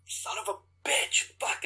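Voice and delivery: breathy muttered curse; frustrated curse. Retold or imitated. Actor cursing after missing his chance, muttered. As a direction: hiss it out in defeat.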